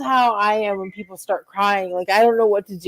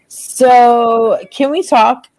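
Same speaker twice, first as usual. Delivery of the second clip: role-play breakup. Acted. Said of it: "are gonna do some role playing".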